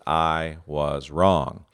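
said slowly, each word weighted; I was wrong, drawn out calmly; slow and measured. Retold or imitated. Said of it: "trying to say this phrase".

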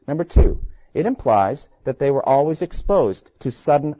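put-on measured, steady reading of an old sermon; sermon reading aloud. Teacher reading Edwards' sermon to students, measured reading. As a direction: read the sermon to the class with weight.

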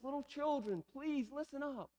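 gentle, slightly softened appeal; mild, tender pleading. Retold or imitated. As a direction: appeal kindly to beloved children. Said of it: "this is like a pleading heart".

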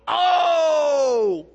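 sudden high, loud cry of wonder; angels' amazed shout. Retold or imitated. Angels marveling at God's creation, with a high, loud "Oh!". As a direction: belt it like a crowd of awestruck angels. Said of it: "all the angels would go".

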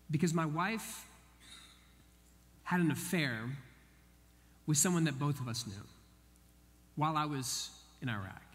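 low, halting retold confession; sombre confession. Bank teller confiding his wife's affair to a stranger, sombre. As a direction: confide it piece by piece with heavy pauses.

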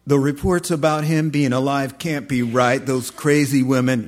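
loud, dismissive disciple, lightly voiced; doubting disciple. Disciple dismissing the women's report to his companion, lightly voiced scorn. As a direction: scoff lightly as the first disciple. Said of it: "they say".

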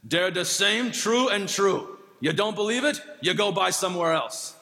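lightly voiced old German farmer dismissing a doubting customer; gruff German accent. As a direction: grandfather telling a doubting customer to go buy elsewhere, mild German accent. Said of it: "in his gruff voice and old, thick German accent".

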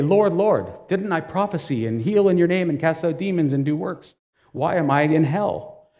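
acted protest, voice pushed up a little; protesting plea. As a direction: plead your case, mildly indignant. Acting the rejected pleading to Jesus.

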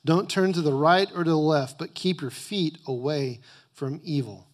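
loud, emphatic scripture reading; preaching. Acted. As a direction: preach the verses with full force. Reads scripture at full force.

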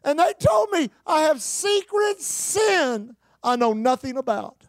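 put-on high, slow Irish-accented lament, easing at the end; imitated Irish brogue. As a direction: mimic a distressed Irish woman. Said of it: "She's speaking with that Irish brogue".

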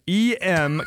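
slow letter by letter spelling. Pretend. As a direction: spell each letter out slowly. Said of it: "Can you spell that for us?".

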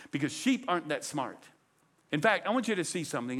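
normal talking voice

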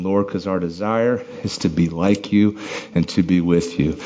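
praying while catching breath; breathless prayer after singing. Real, not acted. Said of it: "Sorry, I'm just catching my breath".

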